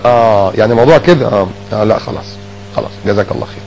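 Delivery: soft, low, satisfied close; relieved acceptance. Retold or imitated. A friend accepting the explanation, soft and low. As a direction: let it go quietly.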